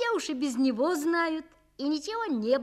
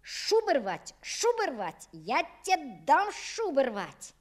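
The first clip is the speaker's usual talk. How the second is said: angry scolding; 2 semitones higher than usual. Acted. Father beating the dog.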